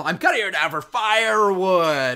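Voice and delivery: slow, eerie villain voice; creepy villain line. Retold or imitated. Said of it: "she goes right off model".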